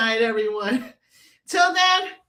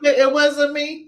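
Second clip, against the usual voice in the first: slow mock denial; 6 dB louder, slower than usual. Slow mock denial to the podcast host. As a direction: drag it out, slow and loud.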